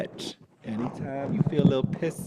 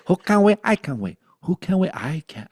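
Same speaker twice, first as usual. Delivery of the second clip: playful call and response; 7 semitones higher, 6 dB louder than usual. Pretend. Teacher playing call and response with herself, playful. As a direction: toss the question up, answer down.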